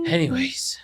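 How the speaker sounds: breathy whisper; whispered anyways. Real, not acted. Brother moving on, whispered aside. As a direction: drop to a whisper.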